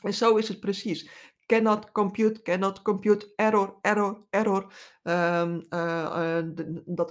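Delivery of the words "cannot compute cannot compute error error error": jerky malfunctioning robot voice; glitching robot. Pretend. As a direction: sound like a glitching computer robot. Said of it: "melding op je interne beeldscherm".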